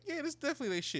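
very high, indignant quote; retold indignation. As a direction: complain for them to overhear, pitched right up. Retold complaint about strangers' trash.

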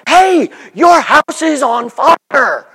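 mock yell. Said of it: "I'm gonna yell".

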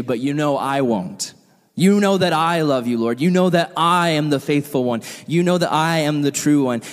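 "I" leaned on as the proud claim; Peter's boast, weight on "I"; stress on I. Acted. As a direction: punch "I" each time, slowing on "I won't". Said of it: "Emphasis on the I".

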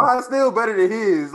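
loud, slow mock warlord growl; African warlord. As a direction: boom it out like a warlord. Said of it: "sound like an African warlord".

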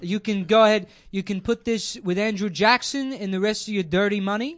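mock-indignant, punchy send-off; defiant retort. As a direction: throw it back at them with mock defiance. Acted defiant words to Republicans.

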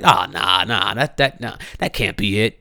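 a hint of a doubtful white friend; mocking dismissive friend. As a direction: imitate friends brushing it off.

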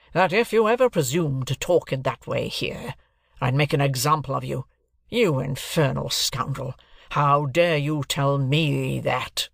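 understated, stern scolding, slowing at the end; irate. Acted. Jaggers rebukes his terrified client, mildly irate. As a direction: scold with slow, weighty indignation. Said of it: "suddenly became most irate".

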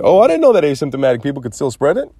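mock governor. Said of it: "He was serious that".

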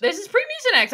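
emphatic. Acted. Emphatic repeat of her joke.

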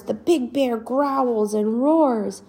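slow, growled roar; growly narration. Acted. Narrating the charging bear to a child, growled and slow.

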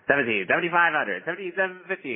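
rapid auction call of bids; auctioneer. Pretend. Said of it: "I am not reading it like an auctioneer".

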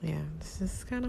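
whispering. Real, not acted. Grieving caller whispers.

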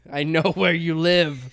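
heavy breathing phone whisper. Pretend. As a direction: menace the viewers as a joke. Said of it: "That's creepy".

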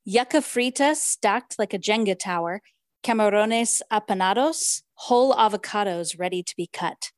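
lightly read-aloud narration with Spanish food names; story reading. Acted. Host reads the novel to her co-host, gentle narration. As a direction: read the feast passage to the listener.

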